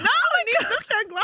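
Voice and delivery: high squeal of laughter breaking into words; laughing shriek. Real, not acted. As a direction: shriek with laughter through the line. Laughing outburst.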